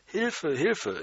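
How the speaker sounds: hoher gerufener Hilferuf. Retold or imitated. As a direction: Hilfe rufen, nicht gebrüllt. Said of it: "nicht so abgedreht gebrüllt". (Junge ruft hoch um Hilfe)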